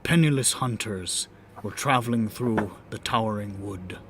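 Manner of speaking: measured dramatic story narration; grand rhythmic bard. Acted. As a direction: tell it like a bard at the fire. Bard narrates the fae tale.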